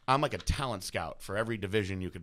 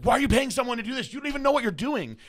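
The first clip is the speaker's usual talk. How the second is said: higher, louder imitation of an annoyed ex-wife; ex-wife scolding; 14 semitones higher, 7 dB louder than usual. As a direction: mimic her nagging, pitched up. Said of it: "And she was like".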